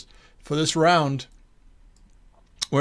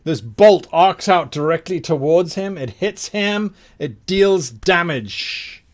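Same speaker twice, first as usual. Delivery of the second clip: punchy build, slowing on the final words; game master narration; 3 dB louder, slower than usual. Acted. Game master describing the lightning bolt striking, dramatic narration. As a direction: land the hit with drawn-out weight.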